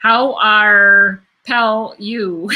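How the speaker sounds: laughing through it. Real, not acted.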